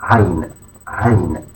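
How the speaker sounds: AIN begun with a voiced squeeze in the throat; deep throat sound. Shown as a demonstration. Teacher showing learners the letter, throaty AIN. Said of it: "a deep voiced sound produced from the throat".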